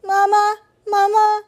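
put-on high, loud baby-bird cry; peeping gosling. A narrator's reading. Gosling calling to the robot as mother, high peeping. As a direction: peep like a needy hatchling. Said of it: "peeped the gosling".

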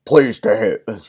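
a half-hearted British Churchill; Churchill attempt. Churchill welcomes the soldier, a half-hearted British accent. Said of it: "I can't do Churchill".

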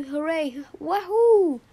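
cheer, rising to a big wahoo; hammed-up storybook celebration; gleeful cheer. A narrator's reading. Story character celebrates finding spot.

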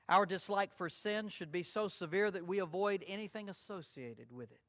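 normal talking voice

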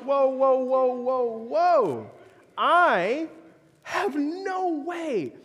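alarmed whoa. Retold or imitated. Preacher retelling his startled reply to the guest. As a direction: throw up your hands and calm him. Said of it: "I'm like".

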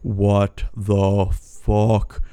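drawn out very slowly in stunned disbelief; a long, dazed, unbelieving drawl. Retold or imitated. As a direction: stretch every word as you take in the webs. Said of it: "I'm like".

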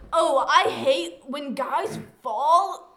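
slow mocking whine. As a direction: drag it out mockingly. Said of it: "people are always like".

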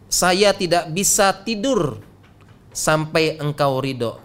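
slow, measured quote; slow rendering. Retold or imitated. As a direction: draw the words out slowly and deliberately. Quoted line rendered slowly, then repeated.

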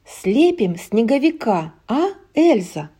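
put-on coaxing little girl. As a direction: coax her sister sweetly. Anna coaxing sister.

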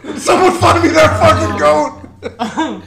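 high, loud laughing yell; laughing shout. Pretend. Mock demand for the goat.

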